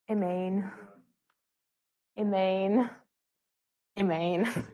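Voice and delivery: lightly mimicked accented imine, drawn out; a fond playful imitation of the professor's accent; imitating Doctor West's accent. Teacher mimics her professor's accent for the class, fondly. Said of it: "says it in the loveliest way with his accent".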